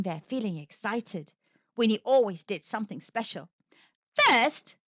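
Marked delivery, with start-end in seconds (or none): 4.1-4.8 raised-pitch stage announcement; announcing. A narrator's reading. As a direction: announce it to an audience. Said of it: "announced Winnie".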